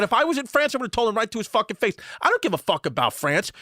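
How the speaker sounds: lightly mimicked defiant Brooklyn lady, high start; a hint of tough mom mouthing off; Brooklyn mother. Friend's mom boasting she'd tell France off, mimicked defiance. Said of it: "real deal Brooklyn lady smoking cigarettes".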